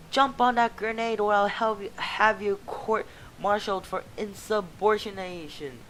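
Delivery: high loud officer voice; commanding officer. Acted. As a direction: bark the orders. Officer orders recruit.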